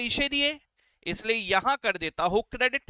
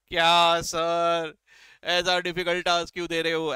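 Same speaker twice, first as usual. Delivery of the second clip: grumbling student; 4 semitones lower than usual.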